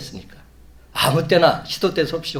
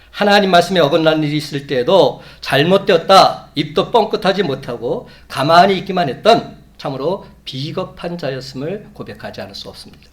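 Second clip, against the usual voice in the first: loud, raised-pitch pulpit confession; impassioned preaching; 3 semitones higher, 8 dB louder than usual. Real, not acted. Preacher confessing his own silence to congregation, impassioned preaching. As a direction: preach it forcefully, pushing each phrase.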